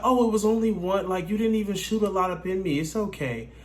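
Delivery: a hint of a carefree woman; lightly voiced woman. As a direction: brush it off like she doesn't care. Voicing the woman casually.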